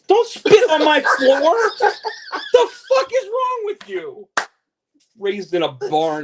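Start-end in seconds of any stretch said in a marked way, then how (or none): 0.1-4.3 laughing high mock yell. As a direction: scold him while cracking up. Mock scolding guest, laughing.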